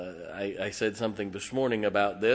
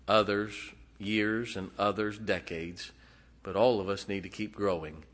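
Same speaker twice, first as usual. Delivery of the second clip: prayer. Acted. Pastor praying over his congregation, earnest and hushed.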